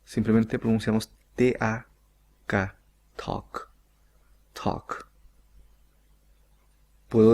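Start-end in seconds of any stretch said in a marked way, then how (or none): 2.5-5.1 "talk" said as tok, no L sound at all; silent L in talk. Shown as a demonstration. Teacher showing Spanish speakers that talk rhymes with tok. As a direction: say "talk" like tok, dropping the L, soft on the repeat. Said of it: "la L no se pronuncia".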